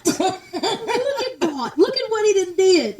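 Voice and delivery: slow churchy praise; church praise. Pretend. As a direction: preach it like Sunday service. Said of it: "I'm getting ready to go to church".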